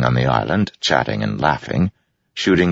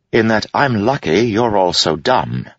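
sly jester; 9 semitones higher than usual. Acted. Wit quips.

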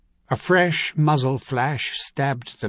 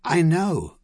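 tight voice; 5 semitones higher, 3 dB louder than usual. Acted. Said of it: "in a tight voice".

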